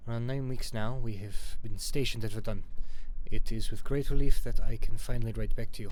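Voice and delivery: put-on loud, declaimed amateur French accent. Soldier writing home to Ma from Verdun, French accent. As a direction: read out the letter in a rough French accent. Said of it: "I gotta do a French accent".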